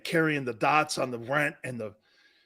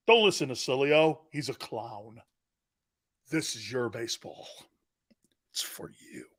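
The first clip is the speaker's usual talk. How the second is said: hushed handover; 4 semitones lower than usual. Pretend. Tender whispered presentation to Aaron.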